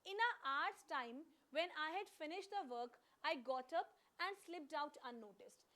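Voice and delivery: very slow, word by word reading of the error sentence; deliberate slow read of the sentence with a hour's; slow dictation. Shown as a demonstration. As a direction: read it out slowly for the class to copy. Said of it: "अब एक question कर लेते हैं".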